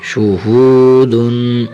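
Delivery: شہودن with a heavy ہ and a slight nasal hum on the final ن; light nasal ending. Shown as a demonstration. Teacher adding ghunna to شہودن. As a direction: end شہودن with a little ghunna. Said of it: "تھوڑا سا غنہ کرنا ہے".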